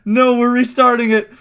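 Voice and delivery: high, loud insistence on the restart; insistent loud. Real, not acted. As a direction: firmly refuse to go on.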